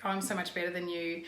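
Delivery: mock them as if you're better; a touch of smug mockery. Shown as a demonstration. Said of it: "so mocking tones, like".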